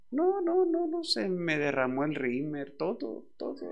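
the voice cracks as it breaks down; breaking down. Retold or imitated. Pastor reliving his despair, voice cracking and wailing.

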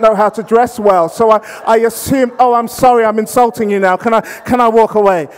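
flustered, escalating mock apology; apologising. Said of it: "and then you apologize".

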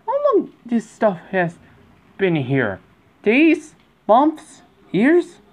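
high, loud, incredulous; high loud mock outrage; outraged questions. Outraged at stale food.

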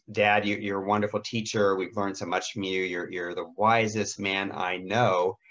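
heartfelt praise, slowing at the end; mean every word of it; sincere compliment. Shown as a demonstration. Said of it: "Give lots of compliments".

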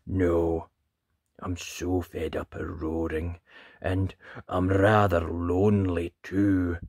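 a hint of a sad, timid creature; whispering dragon. A narrator's reading. Lonely dragon confiding in Ned, mildly sad hushed voice. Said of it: "The dragon whispered".

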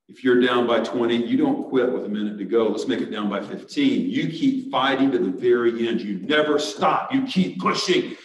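urgent coach pep talk, punchy; firm, driving coach urging on the team; basketball coach. Retold or imitated. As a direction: push the boys to keep fighting. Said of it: "I can remember telling the boys".

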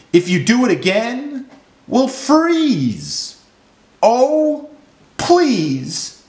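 worried fish begging; pleading fish. A narrator's reading. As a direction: start near normal and rise into a high, slow plea.

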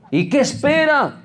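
high, exclaimed reproach; exasperated challenge. Retold or imitated. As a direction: demand it in high-pitched exasperation. Pastor reprende a mujer no casada. (reproche exasperado en voz alta)

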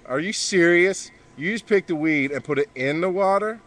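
dad scolding son for putting weed in the pool; exasperated scolding. Real, not acted.

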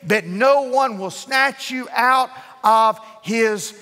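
lightly voiced hissing devil, slow; a hint of a sinister whisper; sinister evil voice. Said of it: "sinister, evil voice that ... hissed out at him".

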